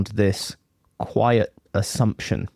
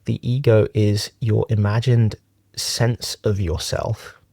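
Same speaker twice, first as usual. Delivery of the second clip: measured meditation teaching with long pauses; unhurried, leaving long silences between phrases; guided meditation. Acted. Teacher talks friends through a closed-eye meditation, guided meditation.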